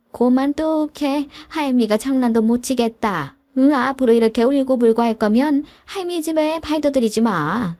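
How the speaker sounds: 높은 톤으로 천천히 연기한 할머니의 꾸중; 울음을 그치라고 다그치는 할미; 시어머니 호통. Acted. 시모가 우는 아이에게 호통. (높고 느리게 시작하는 연기한 시어머니 꾸중)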